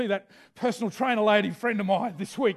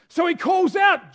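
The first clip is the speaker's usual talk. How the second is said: calling out; 5 semitones higher, 4 dB louder than usual. Acted. Preacher acting out beggar's cry.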